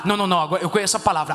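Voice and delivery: fast, dismissive no-no-no of a smug believer; hammed-up smug church member; mock know-it-all. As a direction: rattle it off like someone brushing advice aside.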